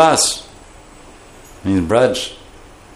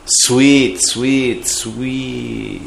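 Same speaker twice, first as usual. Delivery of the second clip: sweet, honeyed; much slower than usual. Shown as a demonstration. Teacher explaining honey-like language, sweetly fading voice.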